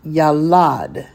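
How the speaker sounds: "yalad" with two ah vowels, weight on lad; teacher's careful "yalad", ya-LAD; pronunciation demo. Shown as a demonstration. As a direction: model "yalad" clearly, landing on the last syllable. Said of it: "So that will be pronounced".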